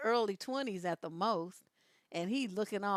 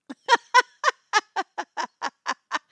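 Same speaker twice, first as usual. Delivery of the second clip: long, loud high cackle; loud laugh; 9 semitones higher, 13 dB louder than usual. Real, not acted. Cracking up at a viewer's comment, loud laugh. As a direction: bursts out laughing.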